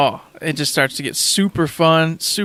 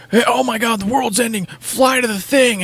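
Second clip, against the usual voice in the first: mock urgency; 7 semitones higher than usual. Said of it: "most games are like".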